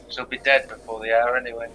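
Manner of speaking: cold dismissive whisper. Acted. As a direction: breathe it out without voice. Cold aside, unvoiced.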